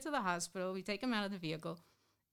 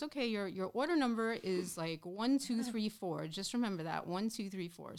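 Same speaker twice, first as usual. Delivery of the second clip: mock intercom announcement. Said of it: "goes on the intercom and goes".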